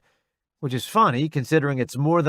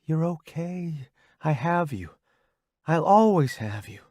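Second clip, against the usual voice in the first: soothing; 3 semitones higher than usual. Acted. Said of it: "Delilah says".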